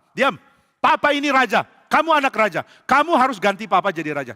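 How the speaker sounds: loud, high commanding outburst; very angry father. Acted. King ordering his son to take the throne, angry shouting. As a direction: silence your son and assert your rank. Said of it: "Papa marah sekali".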